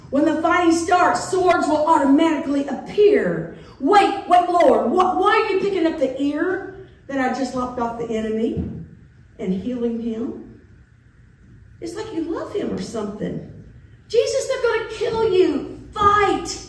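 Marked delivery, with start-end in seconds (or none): 0.1-10.6 louder, rushed alarm mid-fight; alarmed disciple. Retold or imitated. 14.1-16.6 much higher and louder, urgent begging; desperate plea. Retold or imitated. Disciple begging Jesus to fight.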